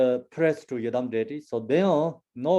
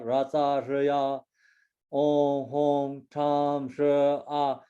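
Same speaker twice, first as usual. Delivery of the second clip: slow mantra recitation; slower than usual. Shown as a demonstration. Teacher slowly recites the mantra for students, measured.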